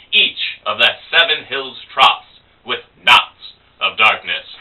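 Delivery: grand, high-pitched poetic declaiming; would-be smart guy. Acted. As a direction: build a showy list, each phrase punched. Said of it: "he's trying to look smart".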